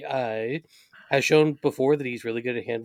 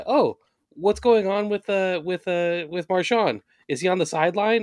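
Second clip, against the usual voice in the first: a touch of mock puzzlement, higher pitched; puzzled onlooker; 5 semitones higher than usual. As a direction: lightly act out someone asking around, stretching the words. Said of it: "he's gonna be like".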